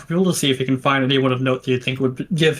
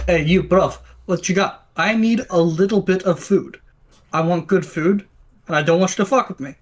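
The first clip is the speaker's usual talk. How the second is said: fake Russian accent; 4 semitones higher than usual. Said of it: "that, like, a fake Russian accent?".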